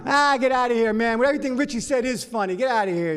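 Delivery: high, heated comeback; annoyed retort. Retold or imitated. Audience member telling the toad off, annoyed retort. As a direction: brush off the scolder loudly. Teller argues back at the toad.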